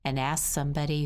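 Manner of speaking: ordinary delivery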